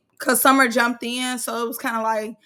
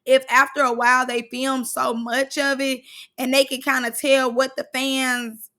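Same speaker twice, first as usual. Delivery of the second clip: ordinary talk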